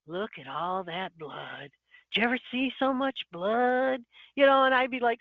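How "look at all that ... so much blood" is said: creepy stranger quote. Retold or imitated. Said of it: "someone would bump into me and go".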